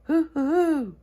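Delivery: imitating an owl; owl hoots. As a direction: hoot back like the owl. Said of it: "this owl would go".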